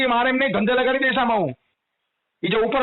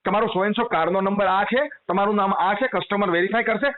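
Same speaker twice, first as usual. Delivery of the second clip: polite telecaller script; 2 semitones lower than usual. Retold or imitated. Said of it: "કે".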